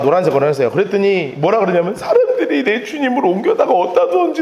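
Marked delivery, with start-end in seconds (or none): 2.0-4.4 high, distressed wail; acted tearful lament. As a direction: plead as weeping Mary. Mary answers angels while weeping.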